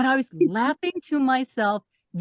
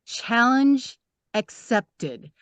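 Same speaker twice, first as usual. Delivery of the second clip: challenge accepted; much slower than usual. Retold or imitated. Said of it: "I just said".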